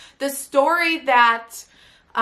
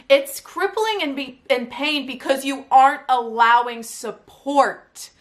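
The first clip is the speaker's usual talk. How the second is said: slow, emphatic telling-off; imitating a coach's firm, deliberate correction; coach's smackdown; 4 dB louder, slower than usual. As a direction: lay down the truth, leaning on each word. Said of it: "gives me a smackdown".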